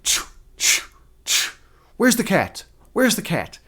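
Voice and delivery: whispered choo choo, then a high squeaky cry; imitating the cat voice. A viewer's cat redemption mimicked, whispered then high. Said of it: "she's always like".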